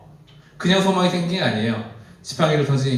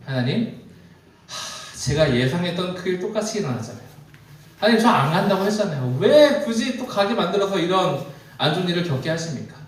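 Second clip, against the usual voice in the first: a heavy sigh, then higher-pitched complaining; acted exasperated protest; 4 semitones higher than usual. Moses complaining to God after being blamed, acted exasperated protest. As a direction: plead why-me, acted with mild exasperation.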